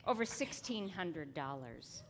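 hushed whisper. Acted. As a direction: whisper the big reveal. Announces total, unvoiced.

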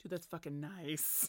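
whispered delight over a sip; savoring delicious food. Real, not acted.

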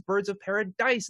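"Paradise" with the final "dise" emphasized; "Birds of Paradise", punching the last syllable; stress on last syllable. Shown as a demonstration. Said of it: "I will always emphasize that last syllable".

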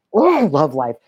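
a whispered little aside. Real, not acted. Host whispering a sign-off to viewers. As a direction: breathe it as a whisper.

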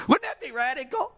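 laughing through the question, high. Shown as a demonstration. Preacher to congregation, laughing at the radical idea. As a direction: laugh as you ask it.

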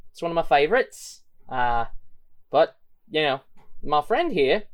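lilting threat, jumping high on key words; menacing gang leader. Acted. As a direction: threaten politely as a villain in a put-on voice.

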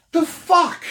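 high, drawn-out mocking outrage. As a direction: ape the angry man, stretched and high. Mocking the angry guy.

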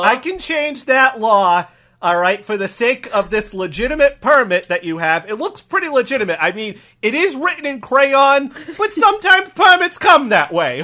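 put-on accented officer talking himself into it; accommodating cop. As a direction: justify it as an obliging local cop. Cop excuses crayon permit.

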